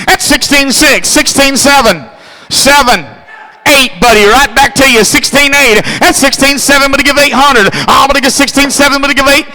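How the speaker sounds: fast rhythmic bid-calling chant; auctioneer. Acted. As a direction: rattle off the bids like an auctioneer. Auctioneer calling car bids.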